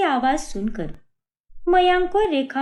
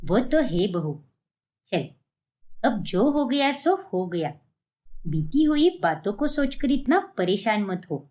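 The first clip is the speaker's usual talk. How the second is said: put-on lower, older mother-in-law voice; mother-in-law asking her daughter-in-law about the market, in an older, lower voice; 6 semitones lower than usual. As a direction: speak as the puzzled elderly mother-in-law.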